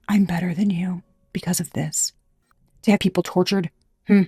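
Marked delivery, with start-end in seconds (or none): 0.1-2.1 hushed mocking whisper of a snob; mocking snob quote. Mocking the class-system bigots, hushed smug quote. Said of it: "To say, you know".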